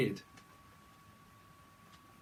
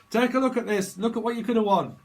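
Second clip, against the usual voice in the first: loud, high game show host hype; hammed-up quiz host luring a losing contestant; Bob Holness host voice; 8 semitones higher, 8 dB louder than usual. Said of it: "Bob Holness".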